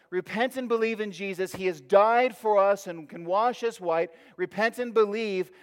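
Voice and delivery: urgent public call, short of a full shout; rooftop proclamation. Acted. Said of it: "from the rooftop, shouted out".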